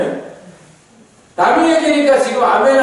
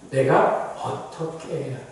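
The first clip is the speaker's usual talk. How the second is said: low, soft questioning; humble prayer; 6 semitones lower, 8 dB quieter than usual. Acted. Moses asking God what to do, soft humble plea. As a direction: drop to a subdued, searching plea.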